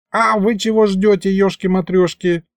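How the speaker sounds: high-pitched, puzzled prodding; surprised old sorcerer. A narrator's reading. Sorcerer finds the others waiting outside, surprised. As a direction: wonder why they are dawdling. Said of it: "удивился вылетевший".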